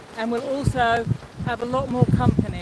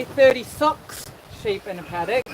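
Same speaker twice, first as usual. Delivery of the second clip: exaggerated New Zealand vowels; mock Kiwi, SIX turned to "socks"; Kiwi accent; 2 semitones lower than usual. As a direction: imitate a New Zealander's clipped "i". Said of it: "Kiwi would say".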